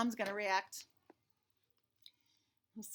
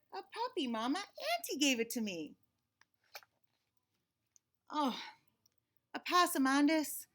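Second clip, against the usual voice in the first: exasperated mama; 2 semitones higher than usual. Acted. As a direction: draw out his name in weary disbelief. Mama scolds, slowed.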